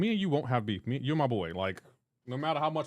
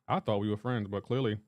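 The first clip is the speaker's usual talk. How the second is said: hurt; 6 semitones lower than usual. Pretend. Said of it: "That hurts, yo".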